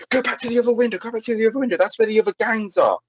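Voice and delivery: high-pitched mock yelling between friends. Friends yelling to each other to switch windows, in a high mock yell. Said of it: "we'd all scream at each other".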